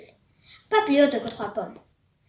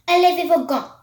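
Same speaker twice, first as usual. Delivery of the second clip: loud, higher shouted command; screaming order; 6 semitones higher, 6 dB louder than usual. A narrator's reading. Grand High Witch screaming at the witches to remove gloves. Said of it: "hurla-t-elle".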